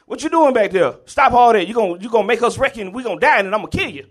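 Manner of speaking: high, loud fatherly yell from the front seat; angry dad yelling. Retold or imitated. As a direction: bark at the kids to stop. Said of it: "my dad's like".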